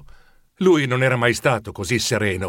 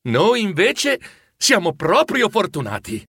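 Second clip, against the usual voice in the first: higher, emphatic and happy; heartfelt contentment; 6 semitones higher than usual. A narrator's reading. Wife agreeing with Bob, heartfelt and glad. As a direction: declare your good fortune wholeheartedly. Wife softened, counting blessings.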